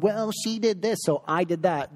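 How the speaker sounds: a light imitation of a child pointing fingers; child making excuses. Parent imitating a child blaming his sister.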